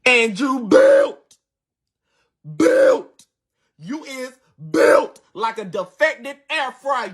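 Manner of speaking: milk the set-up before the punchline; mock dramatic roast; drawn-out roast.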